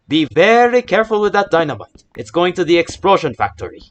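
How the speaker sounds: high, loud mock cartoon warning; cartoon character voice. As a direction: belt it out like a goofy cartoon character. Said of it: "I was going to say".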